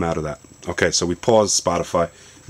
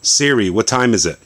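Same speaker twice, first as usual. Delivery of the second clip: voice command; 3 semitones higher than usual. Shown as a demonstration. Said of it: "Now let's get Siri to answer".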